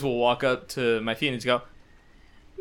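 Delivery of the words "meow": drawn-out human meow; cat meow. Retold or imitated. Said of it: "it sounds just like that".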